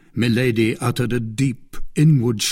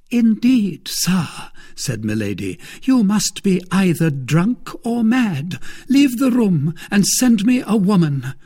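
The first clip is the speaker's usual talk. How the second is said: higher, louder indignant command; haughty anger; 10 semitones higher, 5 dB louder than usual. Acted. Milady ordering the Baron from the room, higher and louder. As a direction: order him out with scorn.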